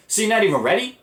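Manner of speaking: high, disbelieving question; retold high-pitched disbelief; incredulous. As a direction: squeak it out in disbelief. Retold disbelief at parents at dealership.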